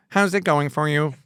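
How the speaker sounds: lightly voiced bot checking in; a hint of an automated helper; helpful bot. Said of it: "BookBot is there for you".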